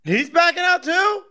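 shocked, high-pitched disbelief; stunned question, drawn out slowly; surprised. Real, not acted. Disbelief at another guest dropping out.

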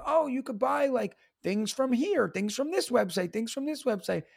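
perky follower voice. Retold or imitated. Imitating followers' suggestions.

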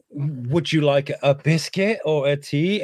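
polite host. Retold or imitated. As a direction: offer it slowly and politely. Acts own nervous offer to guest.

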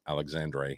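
"Alexandre" ending in a "dray" sound; tentative French-style ending. Shown as a demonstration. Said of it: "I don't know if that's Dre".

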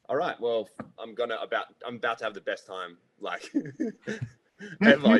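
hammed-up thrill at hearing a Scouser; imitating pub excitement. Picturing a Scouser at the pub, mock delighted. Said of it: "you're going like".

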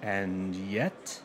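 each word dragged out slowly; slow defiant. Acted. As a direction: defy the court, very slowly. Defiant Galileo-style reply.

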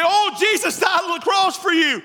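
a half-hearted churchgoer shouting a flat slogan; mock careless witness. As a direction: throw it away like you don't care.

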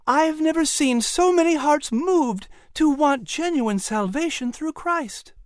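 Sarah challenging her uncle, worked up; shooting back. A narrator's reading. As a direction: fire the question back at him. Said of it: "Sarah shot back".

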